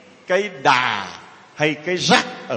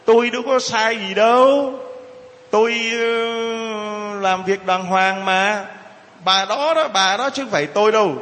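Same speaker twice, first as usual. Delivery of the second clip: mock self-justifying; 4 semitones higher than usual. Someone blaming the other woman, self-justifying. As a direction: stretch out an indignant-sounding denial.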